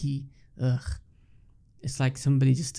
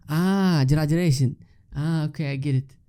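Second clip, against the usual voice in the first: mock realization; 2 semitones higher, 3 dB louder than usual. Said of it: "she went".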